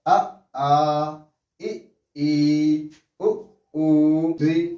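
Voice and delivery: short "अ", "इ", "उ", long "आ", "ई", "ऊ"; pronunciation demo. Shown as a demonstration. Teacher reviews the vowels from the start, pronunciation demo. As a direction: recite short then held vowel, ending on "री" as ree. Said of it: "कि इसका उच्चारण कैसे होगा".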